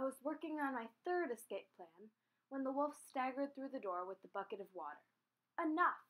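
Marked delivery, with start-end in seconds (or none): 5.6-6.0 out of breath, loud; gasping. Acted. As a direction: gasp it out. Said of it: "he gasped".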